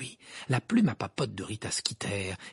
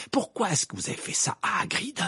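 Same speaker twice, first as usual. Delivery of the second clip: higher-pitched angry demand; furious; 8 semitones higher than usual. A narrator's reading. Harry accuses Rita over Hagrid, furious. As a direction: confront with indignant anger. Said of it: "répliqua Harry furieux".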